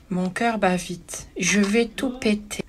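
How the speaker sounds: hammed-up dread, dragged out slowly; mock inner panic. Inner panic over angry buyer.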